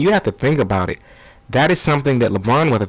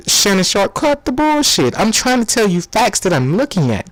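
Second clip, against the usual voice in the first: heated impression; 7 semitones higher than usual. Skip snaps back at Shannon.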